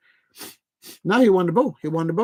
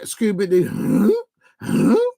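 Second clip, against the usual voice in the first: mock confused player; 4 semitones higher than usual. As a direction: play dumb like a cartoon dog. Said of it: "He's like".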